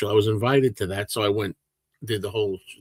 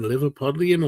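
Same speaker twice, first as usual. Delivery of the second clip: Liverpool accent. Shown as a demonstration. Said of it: "more Liverpool than Manchester".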